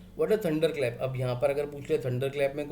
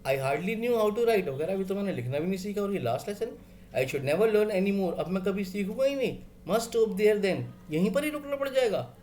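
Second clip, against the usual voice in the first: put-on the boy's dismay, pitched up; hammed-up schoolboy shock; shocked disbelief; 4 semitones higher, faster than usual. Teacher acting the boy's dismay at his last lesson, surprised. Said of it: "हैरान हो रहा है बहुत ज़्यादा".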